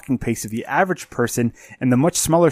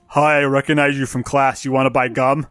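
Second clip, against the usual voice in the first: C J impression. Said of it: "That was my C J impression".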